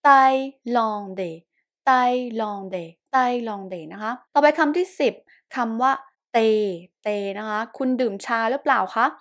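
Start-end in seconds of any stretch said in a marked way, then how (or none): 0.0-3.8 "thaïlandais" repeated as tai-lon-dé, unaspirated t; French "thaïlandais" sounded out with a hard t; TH as plain t. Shown as a demonstration. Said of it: "ออกเสียงตัวต่อเต่า". 6.3-7.1 French thé said "เต", unaspirated t; th as plain t. Shown as a demonstration. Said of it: "เขียนด้วยเตอัช แต่ออกเสียงเต".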